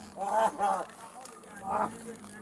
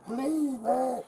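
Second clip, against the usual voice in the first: higher, strained begging for air; desperate pleading; 3 semitones higher, 3 dB quieter than usual. Real, not acted. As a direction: plead for your life, short of breath. Pinned man begging for air.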